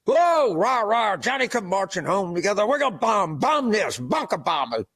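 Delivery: chanted rah-rah with bomb bomb bomb; mocking pundit chanting about bombs; mock war cheer. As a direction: ham up a gung-ho war chant.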